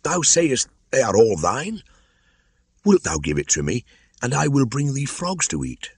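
high, coaxing serpent voice; sly old cobra. Acted. The white cobra bargaining with Kaa, sly and coaxing. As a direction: tempt him like a greedy old snake.

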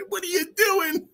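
high, urgent yelled question; urgent hiss. Retold or imitated. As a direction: stop him from yelling, now. Hushed shout at brother.

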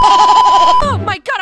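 high, loud, drawn-out squeal; excited shriek. Acted. Shriek on coming back.

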